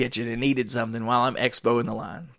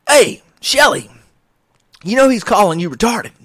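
teasing coworker; 7 semitones higher, 4 dB louder than usual. Retold or imitated. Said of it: "he says".

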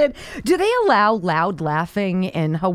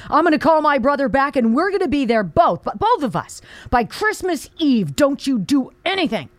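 mock yell at dad; 4 semitones higher than usual. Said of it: "and yells at her father".

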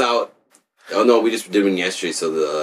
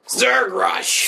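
battle cry; 11 semitones higher than usual. Pretend.

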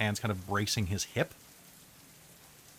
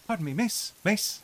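higher, still-bad Irish accent retry; second Irish accent try; 9 semitones higher than usual. GM retrying the Irish beggar, bad Irish accent again. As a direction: have another go at an Irish beggar. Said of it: "That's awful, too".

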